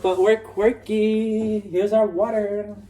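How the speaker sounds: slow, drawn-out ironic presenter tone; mock quirky. Showing their water to the camera, slow and ironic. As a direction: sell the weirdness like it's charming.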